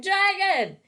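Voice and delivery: high, loud frightened scream. A narrator's reading. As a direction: shriek the word. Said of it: "They screamed".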